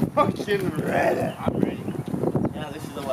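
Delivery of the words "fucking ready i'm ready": breathy whisper, almost silent. Real, not acted. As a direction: hush it, like something's near. Psyching up before checking noise.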